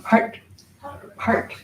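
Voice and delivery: short "part" with tongue curled back on the t; retroflex pronunciation. Shown as a demonstration. Teacher showing how it curls back, abrupt retroflex "part". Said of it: "It curls back".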